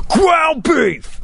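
high, emphatic mock of the pundit; emphatic imitation. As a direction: ham up his big delivery. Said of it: "He said it so emphatically".

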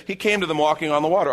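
breezy, over-familiar read-through; glib reading. Acted. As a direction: rattle it off as old news. Mimics casual, over-familiar reading.

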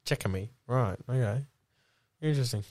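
low, measured company spiel; corporate spokesperson. Acted. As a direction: recite the official policy. Low deadpan manager voice.

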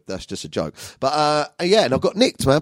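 ordinary talk

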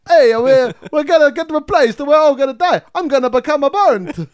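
high panicky cartoon voice; mock catastrophizing. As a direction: wail it like doom is near. Pizza emoji panics.

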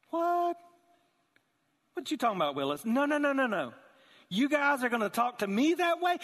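hammed-up angry king yelling at his servants; mock furious king. Preacher acting out the furious king, mock outrage. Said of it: "his face was like".

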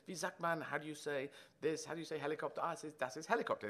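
grabbing for words mid-improv; mock stage German. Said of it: "I pull them in and say".

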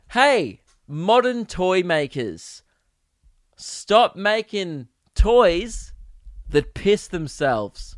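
slow, emphatic mock plea; mock public appeal. Podcaster addressing modern toy makers, mock public appeal. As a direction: spell out the demand slowly and deliberately.

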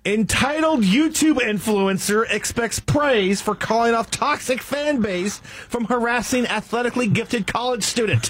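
lightly voiced newsboy yelling headlines; old Newsies voice. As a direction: call it out like a paperboy. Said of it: "your old Newsies voice".

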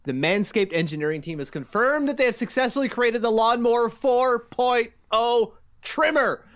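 hammed-up public announcement delivery; emphatic, deliberate podcast promo read; sponsor ad read. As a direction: sell it like a mock bulletin, punching key words. Host performs sponsor ad read.

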